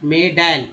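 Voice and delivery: मेडल ending in a flat "ae", "may-dael"; wrong vowel demo. Shown as a demonstration. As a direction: say मेडल with "ai" in the last syllable. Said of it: "ऐ पढ़ेंगे तो".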